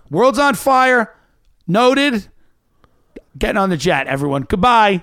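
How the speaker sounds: mock announcement. Mocking celebrity announcement.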